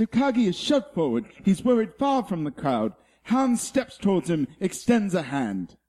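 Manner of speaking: a light wildlife documentary narration; nature documentary narrator. Acted. Reading the Die Hard script as a nature documentary, lightly. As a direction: narrate the scene like a nature film. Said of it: "Planet Earth, uh, narrates Die Hard".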